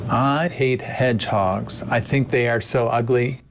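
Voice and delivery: synthetic cloned voice; manipulated clip of his voice; deepfake audio. Shown as a demonstration. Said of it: "play the manipulated one again".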